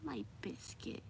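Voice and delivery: high, whispery pet talk; breathed, doting murmur; soft cooing. Real, not acted. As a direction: coo it softly to a pet.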